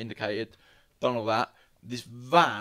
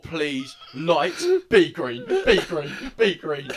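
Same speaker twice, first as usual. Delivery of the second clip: panicked pleading; 4 semitones higher, 5 dB louder, slower than usual. Retold or imitated. Praying the lights turn green.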